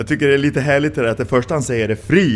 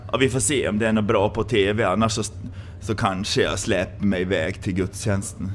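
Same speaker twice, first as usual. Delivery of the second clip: mock indifferent churchgoer; 4 semitones lower, 5 dB quieter than usual. Mocking a lukewarm churchgoer.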